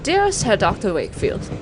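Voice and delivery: formal letter reading. Acted. Reads in-game letter aloud.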